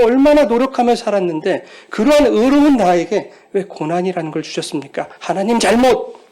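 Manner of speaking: rising indignant complaint to God; Job protesting. Retold or imitated. Pastor voicing Job accusing God, indignant. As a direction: voice Job's protest, building. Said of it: "이렇게 욥은 선언해버리는 거예요".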